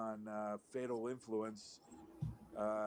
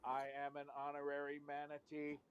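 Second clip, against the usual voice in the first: robot voice; 6 dB quieter than usual. Acted. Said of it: "it's the robot manatee".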